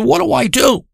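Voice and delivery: high, helpless plea; panicked. Retold or imitated. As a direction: beg for advice, pitched well up. Panicked friend asks for help.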